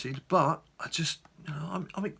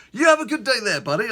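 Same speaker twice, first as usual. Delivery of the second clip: very high, loud, gushing hello; match the over-the-top cheer; worked into a frenzy; 8 semitones higher, 9 dB louder than usual. Retold or imitated. Courier at the door, in a gushing frenzy. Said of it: "he was like".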